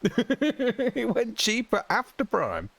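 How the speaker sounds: said through a high laugh; chuckling the words out slowly. Real, not acted. Streamer laughing while answering chat.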